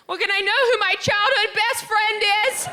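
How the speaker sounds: high, loud mom voice; imitating her indignant mom. Mom demanding from Sprint, high and loud.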